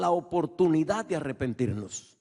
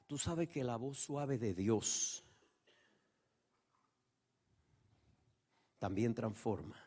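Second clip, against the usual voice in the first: hushed preaching; 4 semitones lower, 9 dB quieter than usual. Real, not acted. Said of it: "preaching softly about soft voice".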